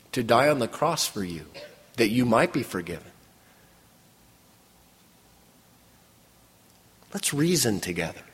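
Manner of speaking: quiet divine invitation, left with room to breathe; God gently offering forgiveness. Retold or imitated. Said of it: "It's like God is saying".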